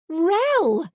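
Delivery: a loud, high, joyful cry. Acted. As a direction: call his name with delight. She runs at him.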